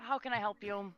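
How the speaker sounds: put-on old shopkeeper lady. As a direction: greet the customer as an old shopkeeper. GM voices the shopkeeper.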